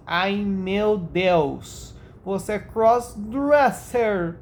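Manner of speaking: slow, drawn-out mock gasp; lightly voiced mock shock; imitating her voice again. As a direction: stretch the words in a teasing put-on voice. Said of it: "ficou muito engraçado a entonação".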